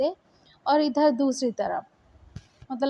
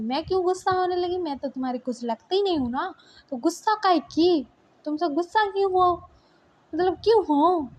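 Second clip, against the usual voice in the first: higher, hurt and sarcastic retort; angry girlfriend; 5 semitones higher than usual. Acted. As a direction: throw his apology back at him. Li angrily refusing his apology. (ऊँची आवाज़ में रूठी हुई नाराज़गी)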